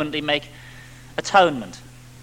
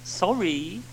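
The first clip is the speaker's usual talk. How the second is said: mock whimper; 3 dB quieter than usual. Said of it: "reluctant whimper of resigned defeat".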